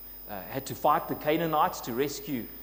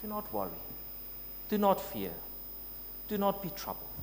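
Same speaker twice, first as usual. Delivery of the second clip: soft, higher motherly calming; a mother calming her frightened child, tender; 5 semitones higher, 7 dB quieter, faster than usual. Acted. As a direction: soothe an anxious child, gently. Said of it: "like a mother calming her child".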